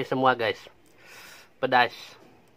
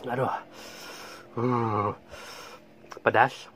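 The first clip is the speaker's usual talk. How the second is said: mouth burning from spicy food; 3 dB quieter than usual. Real, not acted. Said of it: "Di bibir juga panas".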